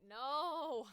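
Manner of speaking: big exaggerated no, ready to laugh; emphatic rejection. Real, not acted. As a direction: cry of comic refusal. Mock outrage at Minecraft pitch.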